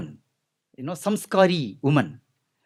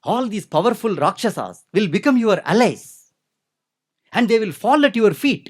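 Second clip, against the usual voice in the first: put-on eager young girl; 5 semitones higher, 4 dB louder than usual. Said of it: "with a real interest of a young girl".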